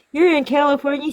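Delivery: high, incredulous retold question; imitated disbelief. Pizza caller learns customer is in California, incredulous.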